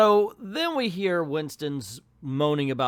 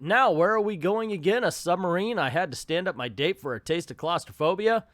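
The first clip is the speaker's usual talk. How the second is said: lightly hammed-up comic complaint, pitched up; comedy double-act bit; 4 semitones higher than usual. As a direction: play it as a mock vaudeville gripe. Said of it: "little Abbott and Costello bit".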